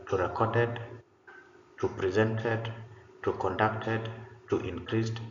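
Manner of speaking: "to recorded", "to presented" with past endings after to; wrong verb form demo. Shown as a demonstration. Teacher shows students the awkward past forms, demo. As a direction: read the wrong forms as a list. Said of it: "They don't make sense".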